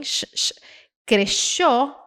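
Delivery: "crechó" said kre-SHOH, hushing sh. Shown as a demonstration. Teacher showing fourth option, "crechó" with sh as in shopping. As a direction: hush "sh, sh", then put it in "crechó". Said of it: "Pode ter o som de S H".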